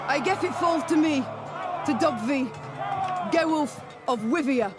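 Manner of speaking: r turned to w, lisped; lisp from bad tooth. Knighting a hero despite a bad tooth, lisping. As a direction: proclaim it through a lisp, slurring r and s. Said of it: "because of my tooth".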